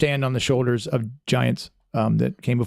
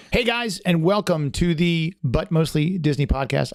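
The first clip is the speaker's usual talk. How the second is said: higher-pitched podcast host intro; upbeat internet-host greeting, pitched up; 4 semitones higher than usual. Real, not acted. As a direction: open the show in your internet voice. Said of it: "it's my internet voice".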